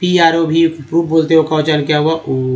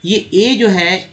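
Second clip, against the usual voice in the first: ए stretched slowly and stressed, a bit higher; emphatic vowel; 3 semitones higher, much slower than usual. Shown as a demonstration. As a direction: lean hard on ए for the class. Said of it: "ये तो fix तरीका है". (ए पर ज़ोर देकर धीरे)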